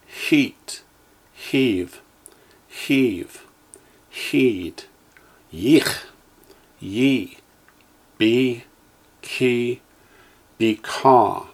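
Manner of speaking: each syllable said slowly and clearly, with a pause after it; teacher's careful drill voice; Hebrew syllables for echoing. Shown as a demonstration. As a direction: model every Hebrew sound for the class to repeat. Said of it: "Line two".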